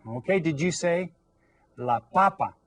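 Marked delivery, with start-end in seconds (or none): 1.8-2.5 "papa" said PA-pa, weight on the first syllable; stress on first syllable. Shown as a demonstration. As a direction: hit the opening PA of "papa", let the second drop. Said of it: "stress that first syllable".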